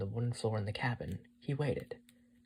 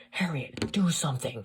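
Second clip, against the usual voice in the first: loud, raised voice under effort; strained from pulling; 4 semitones higher, 8 dB louder than usual. A narrator's reading. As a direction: call for help while heaving hard. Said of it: "his voice was strained from the pulling".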